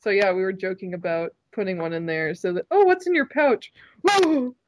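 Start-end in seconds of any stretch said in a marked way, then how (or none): 2.7-4.6 high excited gasp; surprised. Pretend. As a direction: act out a big surprise. Acted surprise at pouch.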